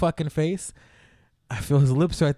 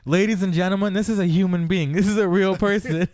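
lightly voiced show host, a bit higher; stage announcer; 4 semitones higher than usual. Comedian showing a big guy to the audience, mild announcer voice. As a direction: present a marvel to the crowd. Comedian presents him to crowd.

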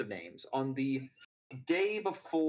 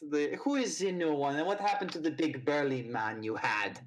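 put-on German accent. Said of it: "Are you mocking my accent".

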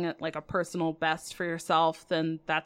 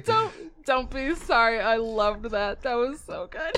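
after laughing hard; 2 semitones higher than usual. Real, not acted. Still recovering from laughter.

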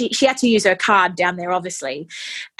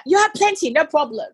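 charming nurse; 7 semitones higher than usual. Retold or imitated. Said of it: "she was so charming".

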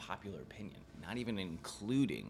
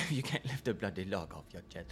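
put-on Cockney accent. Answers in Caine voice.

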